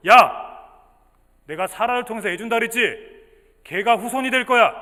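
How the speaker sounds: loud opening call, then emphatic insistence; God's stern, decisive declaration; firm, resolute. Acted. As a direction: lay down the promise like a firm command. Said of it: "단호하게 말씀하셨어".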